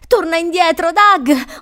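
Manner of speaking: loud, high urgent shout; yelling. A narrator's reading. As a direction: yell to call someone back. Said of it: "urlava Crystal".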